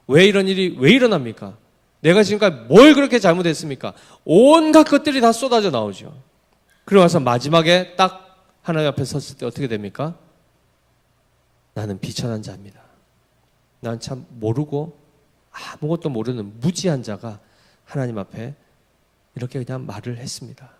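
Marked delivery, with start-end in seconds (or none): 0.1-3.9 mild mock complaint to heaven; acted protest. Preacher voicing a sufferer questioning God, protesting. 11.7-20.7 low, hushed admission of unworthiness; humbled confession. Acted. Preacher voicing a sinner confessing before God, humbled.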